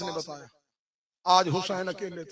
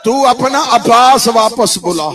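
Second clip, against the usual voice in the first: retold tearful plea; 13 dB louder than usual. Sakina asks father to call Abbas back, subsiding plea. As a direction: lament falling back from a wail. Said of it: "رو کے سکینہ کہتی".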